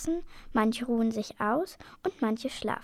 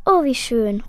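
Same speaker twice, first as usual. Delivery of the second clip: louder burst of delight; delighted call; 7 dB louder than usual. A narrator's reading. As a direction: exclaim it with joy. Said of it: "ruft das Mädchen". (freudig gerufen)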